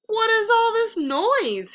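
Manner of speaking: high, loud startled question; alarmed. Acted. Frog runs up, startled by Toad's noise. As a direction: burst in asking what's going on.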